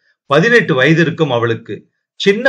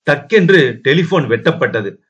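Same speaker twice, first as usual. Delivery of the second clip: plain reading voice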